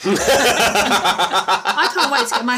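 cracking up while reading; laughing. Real, not acted. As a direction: giggle through the line. Reader cracks up mid-quote.

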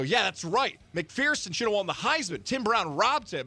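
fired-up defense of his hero; retelling his own heated retort in the meeting; excited retort. Retold or imitated. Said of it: "And I go".

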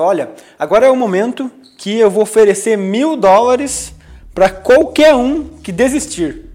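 lightly acted announcement of an offer; founder's announcement. Founder addressing final-stage candidates, mildly imitated announcement. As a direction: lay out the offer, lifting at the end. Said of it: "nas fases finais ele falava".

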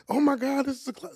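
high, wide-eyed gasp at the club; mock shock. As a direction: play a kid stunned by a club, voice jumping up. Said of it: "it wasn't like".

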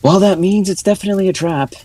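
high, alarmed warning; NPC voice. Acted. GM voices Naza, higher.

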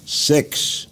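a breathy, surprised little echo; genuinely taken aback by the number. Real, not acted. Interviewer reacts to six years.

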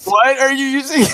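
very high, loud squeak; helium voice. Acted. Voice changer play.

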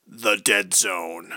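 unvoiced eerie whisper of the title; spooky whisper. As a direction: whisper it like a horror movie.

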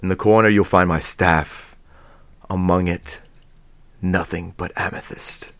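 put-on low, measured old wizard voice; lightly voiced wise old wizard. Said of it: "now do your wizard voice just with your regular accent".

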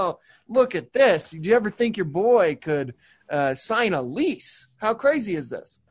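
high, gushing hammed-up pride; mock emotional speech. Thanking his parents at a ribbon cutting, in hammed-up gushing pride. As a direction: overplay a proud son's big thank-you. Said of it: "as I'm giving this emotion".

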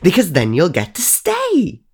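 high, slow and sing-song; a creepy child's promise; sly ghost girl. Acted. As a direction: tease it out sweetly. Ghost girl explaining sweetly.

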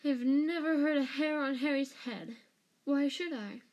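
high, loud indignant defence; shrill, wronged insistence. A narrator's reading. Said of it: "said Pettigrew shrilly".

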